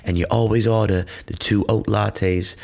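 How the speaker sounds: pointedly listing his habits; barista on the phone. Retold or imitated. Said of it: "And then I sort of smile and go".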